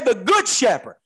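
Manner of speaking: "good" weighted before shepherd; stress on good. Shown as a demonstration. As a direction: hit "good" as the key word. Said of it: "He put an adjective on it".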